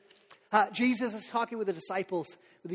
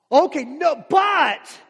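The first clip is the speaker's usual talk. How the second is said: reluctant no; 7 semitones higher, 13 dB louder, much slower than usual. Retold or imitated. Imagined reply to the boss.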